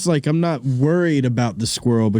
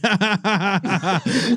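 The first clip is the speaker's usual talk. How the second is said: mock laugh; 7 semitones higher than usual. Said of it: "I'm like".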